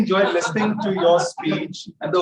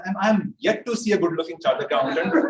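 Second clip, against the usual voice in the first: laughing. Real, not acted. Joking about accountants, laughs.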